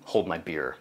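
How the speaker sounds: lightly voiced Australian accent, "beer" said "beah". Sheep farmer Liam answers the ecosystem, in a mild Australian accent. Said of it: "I just love the way Australians say beer".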